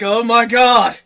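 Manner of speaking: horrified build to a high, loud shout; appalled outburst. Retold or imitated. Storyteller waking in a nightmare of pink, appalled yell. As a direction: exclaim it slowly, in mock horror. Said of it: "to me, that was a nightmare".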